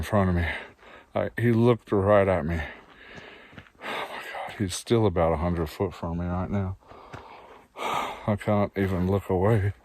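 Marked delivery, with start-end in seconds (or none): 3.8-6.8 hushed, scared whisper; fearful whisper. Real, not acted. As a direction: whisper so the moose won't hear. Moose watching him nearby.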